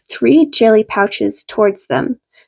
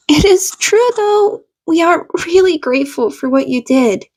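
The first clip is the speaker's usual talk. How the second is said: solemn; 6 semitones higher than usual. A narrator's reading. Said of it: "tone solemn".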